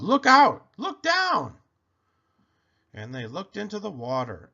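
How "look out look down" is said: high, urgent warning yell; loud storybook alarm. A narrator's reading. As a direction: call out a warning, rising higher. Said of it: "who yelled".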